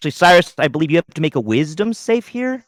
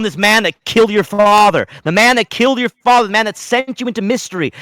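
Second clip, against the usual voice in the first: dramatic build; 6 semitones higher, 3 dB louder than usual. A narrator's reading.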